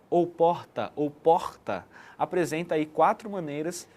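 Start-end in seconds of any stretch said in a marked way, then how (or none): 0.3-0.9 "porta" with a throaty R; Rio guttural R. Shown as a demonstration. Teacher showing four accents, "porta" with guttural R. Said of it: "que é aquele R gutural". 1.1-1.9 "porta" with a soft, aspirated R; Belo Horizonte soft R. Shown as a demonstration. Teacher showing four accents, "porta" with soft mineiro R. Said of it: "passa mais suavemente pela garganta".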